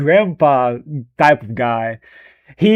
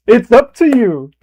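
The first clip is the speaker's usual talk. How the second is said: put-on higher, sweet old man offering a choice; kindly Sidious; 7 semitones higher, 4 dB louder than usual. Streamer imitates novel Sidious tempting Anakin, high sweet coax. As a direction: say it like a cute grandpa leaving it to him. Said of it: "He's more like this".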